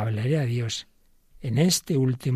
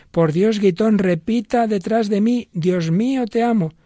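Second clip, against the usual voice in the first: much higher and louder, almost crying out; pleading; 8 semitones higher, 6 dB louder than usual. Acted. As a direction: beg him to repeat each word. Pope pleading, repeat after me.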